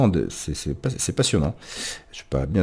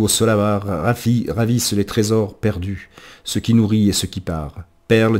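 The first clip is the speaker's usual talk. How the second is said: rhythmic declaimed verse, emphatic line openings; firm, measured verse that falls away at stanza ends; poem recitation; 3 dB louder than usual. Acted. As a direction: recite a workers' anthem without singing.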